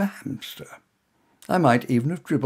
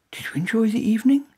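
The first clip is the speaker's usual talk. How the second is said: higher voiced woman, warming as she remembers; lightly voiced young woman, then louder as it clicks; curious woman; 9 semitones higher, 3 dB louder, faster than usual. A narrator's reading. Woman placing the stranger from the theatre, higher and brightening.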